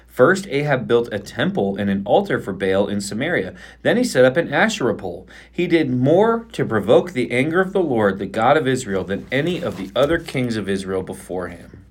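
measured Bible reading aloud; scripture reading. Acted. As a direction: read the passage steadily aloud.

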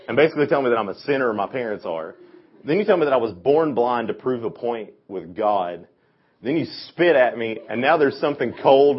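indignant rant. Retold or imitated. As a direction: list the insults, growing disgust. Blind man's complaint to Jesus.

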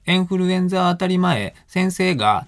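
high Tochigi-accented recitation, エンフルエンザ starting with e for i; dialect reading, i as e. Shown as a demonstration. Showing how pupils read in class, エンフルエンザ with e, Tochigi-accented recitation. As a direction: read エンフルエンザ like a countrified pupil, dropping at phrase end. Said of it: "っていうふうになりますよ".

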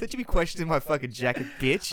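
hammed-up brash comeback; mock swagger. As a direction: play a puffed-up podcaster showing off. Continues mock boast after laughing.

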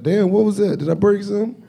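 ordinary talk, nothing marked

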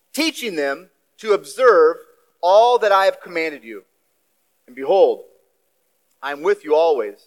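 measured, weighty reading of the Gospel; solemn scripture reading. Acted. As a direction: read it to the congregation like a proclamation. Reads scripture aloud in sermon.

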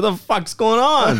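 high, slow mock outburst at the broken beer; imitating a pissed-off friend; retold angry yell. Friend stepping out of the porta potty, mock angry. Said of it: "He was pissed".

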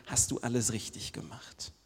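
hushed, whispered question. Acted. Preacher whispers the final question to the congregation. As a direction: whisper it as the question everyone fears. Imagined question at life's end.

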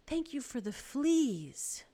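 slow, lifted thanks; serene. A narrator's reading. Betsy thanks God for the fleas, serene. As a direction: serenely give thanks, rising on the last word. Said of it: "Betsy went on serenely".

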